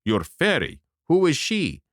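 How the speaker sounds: a hint of an indignant older man; lightly voiced, grumbling about his money; gruff buyer. A narrator's reading. The man interrupts.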